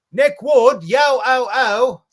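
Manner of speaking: high, loud, slow pirate call; pirate hail. Pretend. Host welcoming a viewer with a loud high pirate call. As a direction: belt it like a hammy buccaneer. Hailing a chatter pirate-style.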